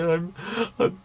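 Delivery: hammed-up, very high wailing fake cry; badly faked bawling that climbs into a squeal; mock sobbing. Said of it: "he's sobbing, he's like".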